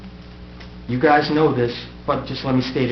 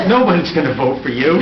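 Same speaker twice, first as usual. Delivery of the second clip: put-on Staten Island accent; 2 semitones higher, 6 dB louder than usual. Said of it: "in that Staten Island accent".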